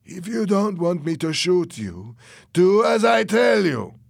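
high threat rising to a slow shout; cruel threat. A narrator's reading. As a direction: menace him, then bear down loudly. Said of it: "said Fernando cruelly".

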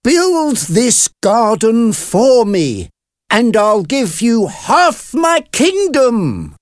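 high, loud, slow excited king; loud, high-pitched royal excitement; excited exclamation. A narrator's reading. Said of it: "The king was excited".

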